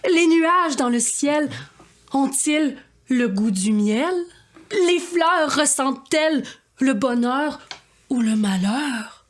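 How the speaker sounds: swooping, theatrical rhymed questions; dramatic verse with rising, searching questions; grandiose poetic declamation. Acted. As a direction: declaim like a pompous poet.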